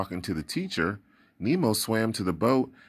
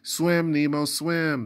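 urgent calling; 8 semitones higher, slower than usual. Acted. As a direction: shout him on to get away. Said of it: "the kids called".

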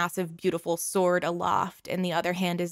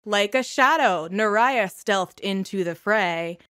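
louder, measured rhyming recital; poem recitation; 4 semitones higher, 4 dB louder than usual. Acted. Brother reciting his heroic poem to the crowd, measured and grand. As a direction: recite the ballad with dramatic pauses.

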